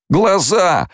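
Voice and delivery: high, drawn-out cry from a blinded man; wailing cry. A narrator's reading. Blinded soldier in the crowd, wailing cry. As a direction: cry out in panic, pitch right up. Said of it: "завопил кто-то".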